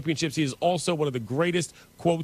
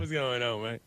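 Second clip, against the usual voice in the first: imitating a Louisiana drawl; 6 semitones lower, 6 dB quieter than usual. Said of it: "There's a little territorial in that".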